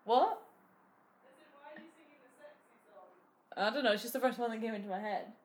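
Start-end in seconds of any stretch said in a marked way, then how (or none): 0.4-3.1 hushed whisper; a secret whisper behind the door. Real, not acted. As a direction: whisper the question so she can't hear. Whispered aside to listener.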